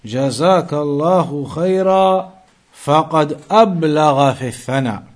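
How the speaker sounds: brisk recitation of the hadith; quick Arabic text reading. Acted. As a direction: read the Arabic source quickly and evenly.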